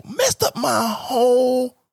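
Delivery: slow mock sob; drawn-out fake lament; slow hammed-up wail; mock crying. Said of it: "I was so mad".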